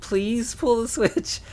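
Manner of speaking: high, slow, sugary polite request; overly polite. Retold or imitated. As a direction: ask sweetly after being scolded. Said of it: "Do not yell at me".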